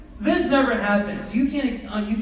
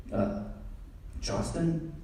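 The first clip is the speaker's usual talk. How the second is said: timid call; 2 semitones lower, 10 dB quieter, slower than usual. Retold or imitated. Nervous dad calling son.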